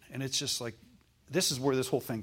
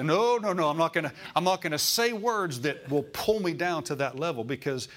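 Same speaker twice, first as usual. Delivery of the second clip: emphatic declaration; 2 semitones higher than usual. Shown as a demonstration. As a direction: push back hard against the lie. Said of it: "straighten it up and say".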